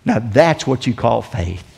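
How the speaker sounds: ordinary talk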